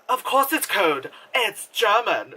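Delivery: put-on playful German accent from a commercial; mock German accent. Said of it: "fucking Jägermeister commercial".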